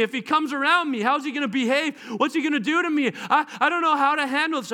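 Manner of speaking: nervous half-laughing panic; panicky. Acted. Enemy panicking at Jesus' return.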